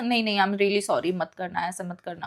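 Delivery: soft, meek apology fading almost to nothing; quietly pleading. Retold or imitated. To a threatening boy, meek quiet pleading. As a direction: beg him timidly under your breath. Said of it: "मैं चुपचाप से".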